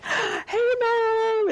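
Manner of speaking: put-on high, loud, delighted child calling out; excited kid call. Child spots mother in crowd, calling out high and thrilled. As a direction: call out to Mom like an overjoyed kid.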